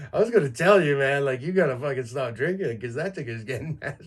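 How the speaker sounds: like a buddy half-yelling a warning; buddy's teasing warning. Retold or imitated. Buddy scolding about his gut.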